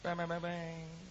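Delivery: imitated end-of-story chime; mock closing jingle. Preacher jokingly ending his story, mock jingle.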